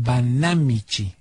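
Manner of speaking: Banamichi said slowly, as Banámichi, stress on the first syllable. Shown as a demonstration. Radio host clarifying a town name for listeners, slow, with stress on BA. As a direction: spell out Banamichi deliberately, leaning on the BA. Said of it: "esa es drújula la palabra, con acento en la A".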